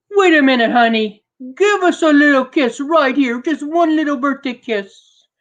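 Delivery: high, coaxing grandma voice; sweet granny. Acted. Grandma coaxing her grandson for a kiss. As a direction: coax him like a doting granny.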